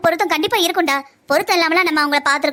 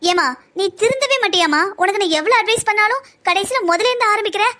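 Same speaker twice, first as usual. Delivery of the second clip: higher-pitched, exasperated reproach; exasperated scolding; 4 semitones higher than usual. Acted. Daughter scolds mother for wavering on the plan, exasperated. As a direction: scold with weary disbelief.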